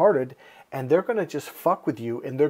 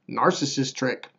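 usual speaking voice

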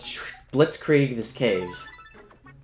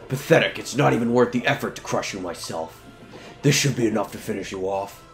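slow theatrical villain menace. Acted. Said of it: "It's Edna".

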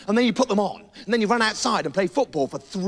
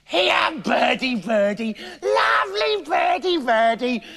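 coaxing witch voice; 4 semitones higher than usual. Acted. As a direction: lure the bird in, sing-song.

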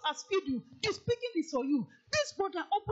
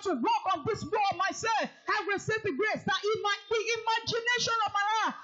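rally the church to pray aloud; preaching prayer; 2 semitones higher than usual. Acted. Preacher leads the morning congregation in prayer, fervent.

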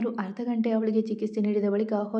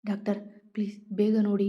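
plain reading voice

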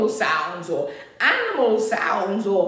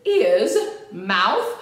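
brisk repeat-after-me drill; a bit faster; 3 semitones higher, much slower than usual. Shown as a demonstration. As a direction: call each word briskly for the class.

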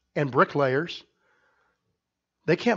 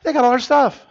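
louder, higher, the panic boiling over; panicked shout; 8 semitones higher, 7 dB louder than usual. Acted. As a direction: yell it like everything is lost. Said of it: "repeated louder right after".

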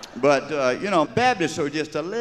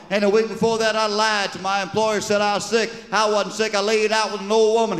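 confessing sinner; 8 semitones higher, 3 dB louder than usual. Acted. Congregant confessing in church.

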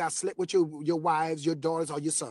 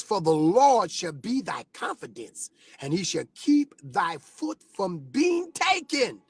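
scripture reading; slower than usual. Acted.

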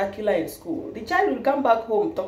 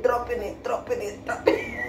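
fading to nothing; 2 semitones higher, 5 dB quieter than usual. Shown as a demonstration. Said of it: "fading repetition".

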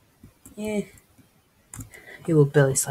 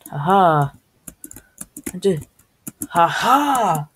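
gloating laugh; 2 semitones higher, 4 dB louder, slower than usual. Real, not acted. Triumphant gloating in game.

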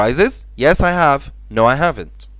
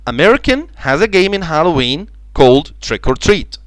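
slow and slightly higher teaching read; slow example sentence; 4 semitones higher, 4 dB louder, much slower than usual. Shown as a demonstration. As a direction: read it slowly for the class. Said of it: "Trick، يخدع".

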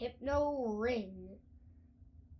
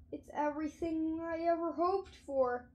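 excited; 7 semitones higher, 4 dB louder than usual. A narrator's reading. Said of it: "cried George".

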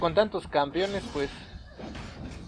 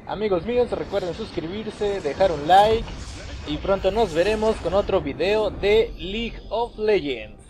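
slow, friendly sign-off to viewers; outro sign-off; slower than usual. Real, not acted. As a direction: wrap up the video warmly.

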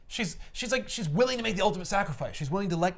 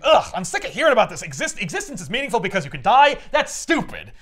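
higher, louder and exasperated; annoyed scoff; 5 semitones higher, 3 dB louder than usual. Retold or imitated. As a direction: scoff at the idea. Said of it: "and he goes".

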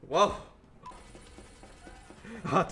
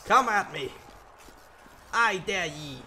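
taunting; 3 semitones higher, 4 dB louder than usual. Real, not acted. Taunting the enemy.

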